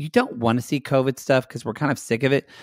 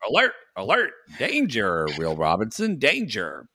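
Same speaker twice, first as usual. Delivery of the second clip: mock robot alarm; 2 semitones lower than usual. Mock robot warning about Luke's face.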